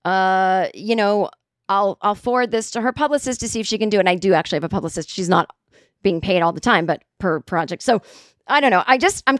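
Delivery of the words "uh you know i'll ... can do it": pretend assistant Tyler. Answering a podcast invite as her made-up assistant, lightly voiced assistant. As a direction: play a polite fake assistant brushing off a request. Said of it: "write back as Tyler and go".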